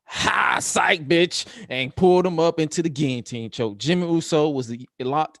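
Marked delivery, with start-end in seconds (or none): 0.0-1.5 mock taunt. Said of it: "Roman said".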